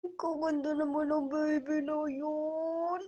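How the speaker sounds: slow, changed cooing voice; baby talk. Acted. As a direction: admire the baby tenderly. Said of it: "ganun pala yung baby talk". (mabagal na baby talk)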